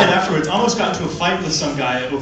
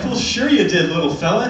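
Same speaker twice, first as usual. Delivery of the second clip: patronising, slightly higher sing-song; condescending grown-up; 3 semitones higher than usual. Retold or imitated. Grown-up at school patronising a kid who says he went to New Zealand. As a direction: humour the little boy. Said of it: "And they'd be like".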